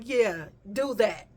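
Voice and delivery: slow, dismissive; curt brush-off. Retold or imitated. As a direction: wave her off with a slow drawl. Dismissive reply.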